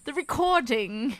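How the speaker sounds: light attempt at an English accent; imitated English accent. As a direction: copy your co-host's English accent. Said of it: "you try to imitate my accent".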